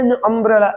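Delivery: "an" stretched as "en"; drawn-out "en" article. Shown as a demonstration. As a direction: drag out "an umbrella" as "ennn umbrella". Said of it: "एन नहीं पढ़ना है". ("an" को "एन" खींचकर बोलें)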